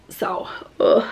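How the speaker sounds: ordinary talk, nothing marked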